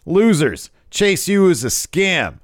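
loud, high mock wrestling promo; Waller. Waller belittling a rival's debut, scornful. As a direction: taunt like a heel on the mic. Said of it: "he says".

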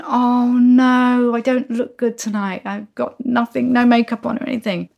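mock mortified wail; comically wilting inside; melting with embarrassment. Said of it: "I'm just melting".

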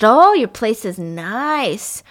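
drawn-out mock admiration, dropping off at the end; acting out an unhinged, over-the-top compliment; unhinged gushing. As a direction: gush unsteadily, stretching the words. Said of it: "he's very unhinged".

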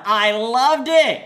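slow gush. Real, not acted. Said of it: "Oh my God".

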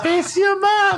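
high sweet recorded mum voice. Pretend. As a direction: coo it like a recorded message. Dead mum's recorded toy voice.

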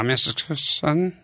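sly muffled shark at the door; land shark voice. Retold or imitated. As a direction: play a dim monster faking politeness. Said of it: "did the shark voice".

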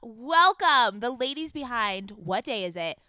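big, high, shouted show intro; hype intro. Acted. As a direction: announce the guests like a hype host. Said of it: "that energy was so good".

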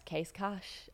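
"Case cash" as "case-kahsh", softly rising; unsure pronunciation. Shown as a demonstration. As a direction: guess "Case cash" quietly, ending in sh like a question. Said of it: "I don't fucking know".

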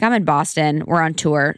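plain, level answer to mom; matter-of-fact. Retold or imitated. Daughter answering mom on the phone, matter-of-fact. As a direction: say it as a simple fact. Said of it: "I'm so matter of fact".

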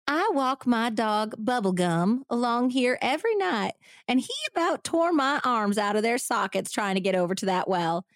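hammy Texas lady voice; bad Southern accent. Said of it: "bad Southern accent acting".

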